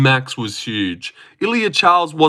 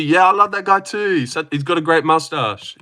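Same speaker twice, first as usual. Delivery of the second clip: higher, put-on friendly endorsement; mock enthusiasm; 3 semitones higher than usual. Streamer suggesting what a member should say, mock-enthusiastic. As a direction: speak up brightly as the loyal supporter. Models the loyal reply wanted.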